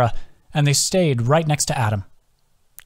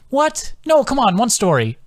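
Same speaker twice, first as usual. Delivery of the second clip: much higher, eager protest; pleading; 11 semitones higher than usual. Acted. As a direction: beg him for one more story. Tara pleading.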